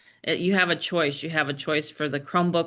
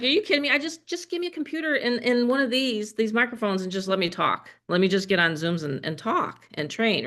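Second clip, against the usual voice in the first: exasperated; 3 semitones higher than usual. Retold or imitated. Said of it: "I was like".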